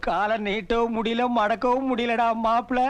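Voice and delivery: slow, aching complaint; drawn-out wail of soreness; pained groaning. Acted. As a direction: moan it out slowly as if the leg hurts. Complains of hurt leg after fall.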